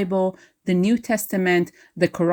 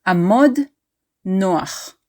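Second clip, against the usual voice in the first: army command. Shown as a demonstration. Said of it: "the command at ease".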